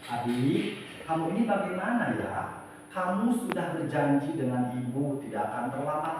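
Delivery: softly voiced disappointed teacher; gentle, mildly sorrowful reproach to a pupil; pleading, soft, sad. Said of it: "dengan nada suara yang memelas, halus, sedih".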